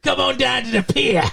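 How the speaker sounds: put-on broad English-accent invitation; mock sexy English accent. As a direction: beckon in a hammed-up English accent. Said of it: "What's a sexy English accent?".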